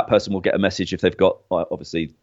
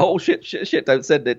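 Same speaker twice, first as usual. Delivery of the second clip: mild, higher-pitched mock panic; retold panic; 5 semitones higher than usual. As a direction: repeat it in a comic fluster. Retold panic over accidental sending.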